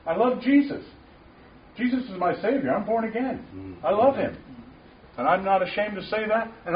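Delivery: high, fervent testimony of love; passionate declaration. Real, not acted. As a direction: pour out devotion, voice lifted.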